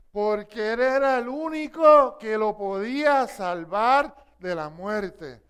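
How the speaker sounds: loud, slow emphasis on único; preaching emphasis. Real, not acted. Preacher to congregation, loud slow stress on único. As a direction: lean hard on único, slowly.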